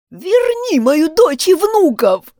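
loud, high, slow desperate cry; shouting. A narrator's reading. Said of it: "закричала баба Катя и разрыдалась". (громкий отчаянный крик)

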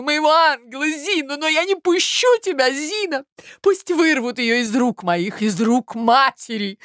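high, loud, overacted maternal cry; a scheming mother hamming up her grief; high, loud, melodramatic mother; theatrical mother.

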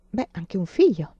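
whispered half-aside; hushed whispered remark. A narrator's reading. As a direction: breathe it out, barely voiced. Anna's doubtful interjection.

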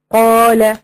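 قال with an open, sustained alif; madd with alif. Shown as a demonstration. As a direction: hold the long aa in قال. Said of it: "هذا مد بالألف".

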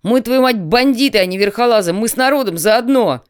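big brother roaring at the messenger in rage; angry roar. A narrator's reading. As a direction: bellow it at the messenger, fuming. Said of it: "взревел Тимоха".

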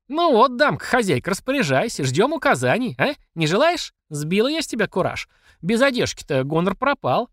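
high, mocking triumph; gloating mother. Mamasha gloats over the stripped Platsekina, high. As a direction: crow over the beaten boss.

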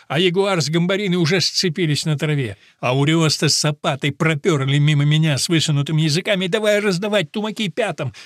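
plain reading voice

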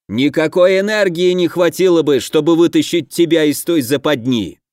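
чуть громче и выше, с напором; отчитать, слегка повысив голос; повышенным голосом. Acted. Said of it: "и повысил голос". (с напором, повысив голос)

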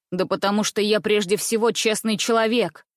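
plain reading voice

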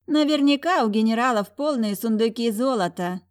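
a lightly sung dreamy line; greedy sister dreams of the generals' gold, singsong. Acted. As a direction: drift off into golden daydreams. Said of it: "пропела мечтательно Сафира".

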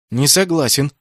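protest. A narrator's reading. Naoki refusing to play dead, loud protest. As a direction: refuse outright. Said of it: "запротестовал Наоки".

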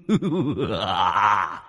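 eerie shouted cackle; wild spirit laugh; ghostly laugh. Acted. Ghost laughs after song.

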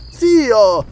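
high indignant exclamation; amazed and indignant. A narrator's reading. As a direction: cry out in shocked protest. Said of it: "stupita e indignata".

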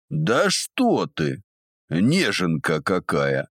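mocking. Old man mocking captive.

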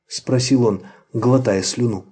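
usual speaking voice

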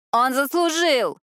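high, loud, slow yell; yelling back. A narrator's reading. Daisy yells back at Jane from the hall, loud. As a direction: shout it back defiantly. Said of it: "проорала Дейзи в ответ".

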